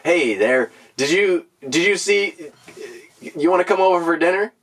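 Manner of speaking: lightly voiced poodle inviting someone to dinner; poodle character. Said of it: "poodle's gonna talk to the Chinese scientists".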